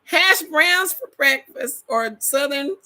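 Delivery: excited craving. Real, not acted. Excited potato list.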